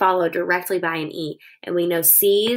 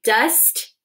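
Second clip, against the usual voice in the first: "Dust" hit as one beat; teacher beating out "Dust"; syllable pounded. Shown as a demonstration. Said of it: "Pound it".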